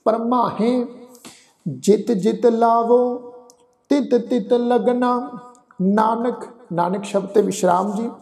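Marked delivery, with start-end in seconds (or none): 0.1-6.4 slow, measured verse recitation; deliberate chant-like reading with pauses; scripture recitation. Shown as a demonstration. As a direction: recite line by line with held final syllables.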